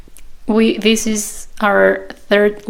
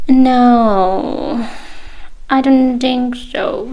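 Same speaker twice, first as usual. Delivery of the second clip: a light, slowish attempt at a British accent; bad British accent; 3 semitones higher, much slower than usual. British fair lady refusing the student, in a weak British accent. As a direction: brush off the question in a mock British accent. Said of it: "sorry for my bad accent".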